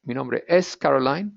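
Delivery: "es" restated clearly with an E, as "ess"; stress on es. Shown as a demonstration. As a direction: lean on "es" as the correction.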